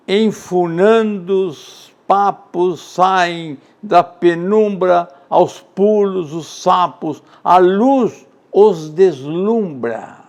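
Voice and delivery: slow, rhythmic verse reading; measured poetic cadence; poem recitation. Acted. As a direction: bounce the lines like hopping frogs. Recites Manuel Bandeira poem.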